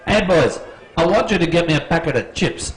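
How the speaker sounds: quick, light Kiwi accent. Shown as a demonstration. Quiz host repeats the line for a contestant, mock Kiwi accent. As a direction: lightly imitate a New Zealander. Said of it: "do it in the Kiwi accent".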